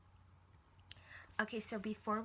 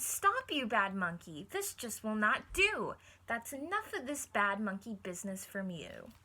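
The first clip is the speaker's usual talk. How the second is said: louder scolding cry at the monkey; cried out; 6 dB louder than usual. Acted. Miss McGoody scolding the monkey, loud cry. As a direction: call out sharply to stop the monkey. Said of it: "She cried".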